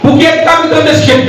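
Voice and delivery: high-pitched, intrusive question; acted busybody interrupting a prayer; meddling questioner. Acts meddler questioning a worshipper.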